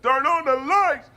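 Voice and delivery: high, drawn-out call into the dark; mock crowd yell. Crowd yells at the arena during a blackout, high mock holler. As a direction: holler it like a panicked spectator.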